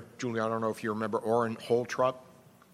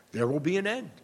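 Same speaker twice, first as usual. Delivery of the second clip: laughing repeat; 4 semitones higher, faster than usual. Real, not acted.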